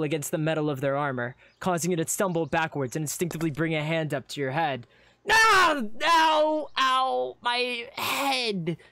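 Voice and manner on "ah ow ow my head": high, loud yelps easing off; yelp, then groan through the hurt; cry of pain. Acted. Adventurer after knocking skull on armor, pained.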